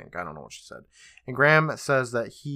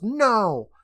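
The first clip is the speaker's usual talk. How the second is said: higher-pitched retold cry of refusal; imitated outcry, raised but not full force; mock yell; 9 semitones higher, 3 dB louder than usual. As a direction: give a short, half-hearted yell, pitched up. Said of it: "She yells".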